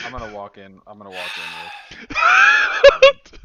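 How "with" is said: high, slow yelling; shouting. Real, not acted. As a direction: yell it over the laughter. Player yells over table laughter.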